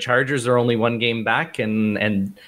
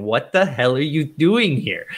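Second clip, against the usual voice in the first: exasperated, higher-pitched mild mock yell; mock TV screaming; 4 semitones higher than usual. Frustrated fan to the coach on TV, mild mock scream. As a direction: imitate a fed-up viewer, pitch climbing without really shouting. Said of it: "screaming at the T V going".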